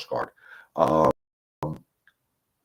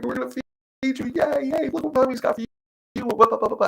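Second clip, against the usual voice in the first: put-on much higher, sing-song baby talk to a dog. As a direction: coo at the puppy like a doting mommy. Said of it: "we're like".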